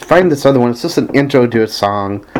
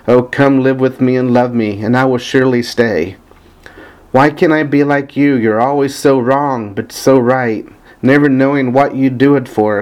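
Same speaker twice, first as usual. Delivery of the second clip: even, measured recitation of song lyrics; reading lyrics aloud. Acted. Fan reading favorite lyrics to listeners, evenly recited. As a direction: recite the verse steadily, line by line.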